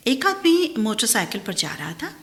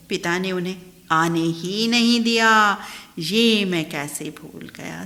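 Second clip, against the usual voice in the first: measured, swelling poetic recital; poem recitation. Acted. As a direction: recite each couplet with rising feeling. Reciting a poem about parents.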